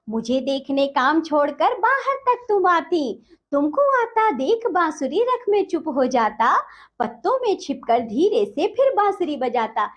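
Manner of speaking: measured, sing-song verse reading; poem recitation. Acted. Teacher reciting the poem to children, lilting.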